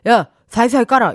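"사인상" slurred into "사이사이"; quick "사이사이 깔아" with a short tongue; imitating a lisping boss's order on "사이사이"; short-tongued boss. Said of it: "약간 혀가 조금 짧으신".

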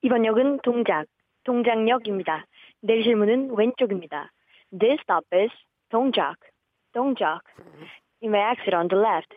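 measured station PA announcement; subway announcement. Acted. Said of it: "지하철 들어오는 소리부터 안내 방송".

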